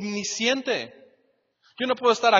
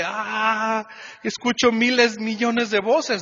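overwhelmed cry; 2 semitones higher, 4 dB louder, slower than usual. Retold or imitated. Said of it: "está así en su mente de".

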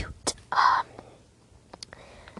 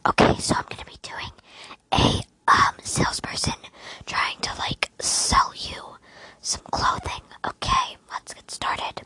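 ASMR whisper; 4 dB louder than usual. Acted. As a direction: hush it like ASMR.

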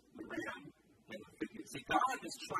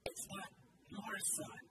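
acted choked plea, fading softer; choking up; 2 semitones higher, 5 dB quieter than usual. God tells Abraham it's his own son, choking up. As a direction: plead haltingly, sinking almost to nothing. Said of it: "his voice choking up as he's talking".

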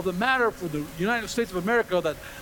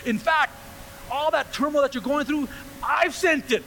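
lightly voiced God, pitched up and firm; a higher, insistent preacher's take on God; God speaking; 4 semitones higher than usual. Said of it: "but if God is saying".

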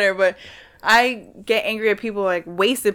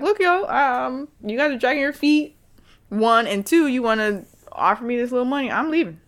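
higher, firm ultimatum; defiant telling-off; 5 semitones higher than usual. Retold or imitated. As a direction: lay down the law to the boss, pitch raised. Telling employer she's leaving.

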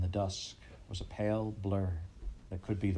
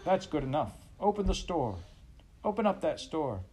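high, rowdy yelled chant; crowd yelling; 9 semitones higher than usual. A narrator's reading. The whole crowd yelling at Pa to open the store, high rowdy yell. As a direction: rouse them like a mob egging itself on. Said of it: "the whole crowd yelled".

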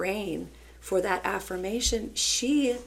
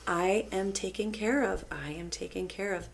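calm affirmation; 4 dB quieter than usual. Retold or imitated. Teacher feeding child calming affirmations.

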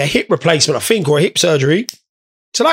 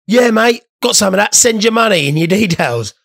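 mock scammer; 4 semitones higher than usual. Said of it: "they'll be just like a".

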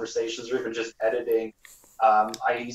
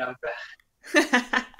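put-on high kid voice; 12 semitones higher than usual. Shown as a demonstration. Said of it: "have you considered singing".

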